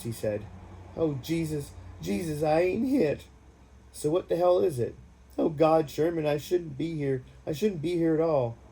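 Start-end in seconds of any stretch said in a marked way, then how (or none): 1.0-3.3 high, louder, on the edge of sobs; sobbing. Acted. Randy in the foxhole to Sherman, high sobbing plea. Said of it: "Between louder sobs". 3.9-5.0 shout. Acted. Shouting over shelling. 5.4-8.6 high, louder, panicked cry. Acted. Randy to Sherman under shelling, panicked crying. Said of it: "He was really panicked".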